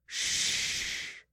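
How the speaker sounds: soft unvoiced shush; whispering. A narrator's reading. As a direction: hush it in a whisper. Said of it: "Naomi whispered".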